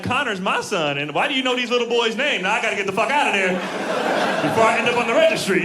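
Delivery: a mom freaking out about a stranger; imagined alarmed mom. Retold or imitated. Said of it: "I didn't want her to be like".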